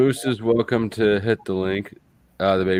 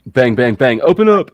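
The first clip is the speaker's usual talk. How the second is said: pounding knocks, then a much higher, louder "open up"; mock police raid; 4 semitones higher, 6 dB louder than usual. Joking about the DEA, playing an agent busting in, mock raid shout. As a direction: bark it like a cop at the door.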